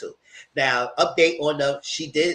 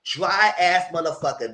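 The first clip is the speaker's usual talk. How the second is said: mock scolding; 5 semitones higher than usual. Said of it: "'cause I said".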